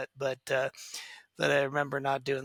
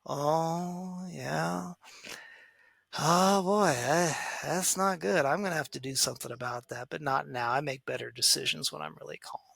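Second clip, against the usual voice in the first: calm parent. Shown as a demonstration. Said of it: "grab a hold of yourself and say".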